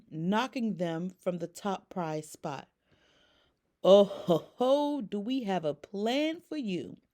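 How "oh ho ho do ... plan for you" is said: loud "oh ho ho" then a hushed whisper; gloat, then lean in and whisper the plan; sly scheming duck. Acted. Ducky gloating to Woody's gang, then whispering. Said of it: "said Ducky".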